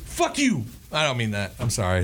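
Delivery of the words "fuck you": sudden higher-pitched snap; half-joking aggressive outburst; mock aggression. Swearing at a teasing co-host, mock aggressive. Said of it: "That was very aggressive".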